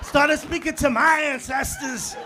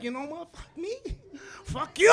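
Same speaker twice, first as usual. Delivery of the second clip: angry outburst; 2 semitones higher than usual. Retold or imitated.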